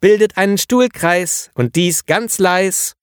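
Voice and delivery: put-on high, slow sing-song call to the children; kindergarten teacher rhyming. A narrator's reading. Kindergarten teacher calling the children into a circle, high sing-song. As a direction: rhyme it out like a cheery teacher. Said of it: "rief die Kindergärtnerin in Reimform".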